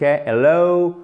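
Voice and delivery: slow teacher's demo of hel-LOOW; drawn-out diphthong ending. Shown as a demonstration. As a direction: drag out the end of hello as a double sound. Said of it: "vous faites traîner sur la fin".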